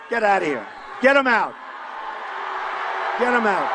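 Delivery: rally speaker yelling to remove hecklers; shouting at protesters. Real, not acted. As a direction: throw them out of the hall.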